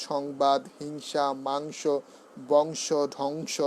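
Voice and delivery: "সংবাদ", "হিংসা", "মাংস" with a held ng; anusvar as ng. Shown as a demonstration. Teacher demonstrating anusvar, "সংবাদ" and "মাংস" with clear ng. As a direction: slowly ring the ng in "বংশ" and "ধ্বংস". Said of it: "অঙ্গের মতো উচ্চারণ হবে".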